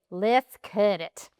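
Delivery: slow imitation of a West Virginia boy; cute West Virginia accent. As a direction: draw it out like a little West Virginia kid. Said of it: "with his cute little West Virginia accent".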